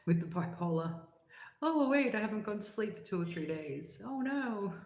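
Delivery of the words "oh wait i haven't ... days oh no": mock alarm. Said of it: "my first warning".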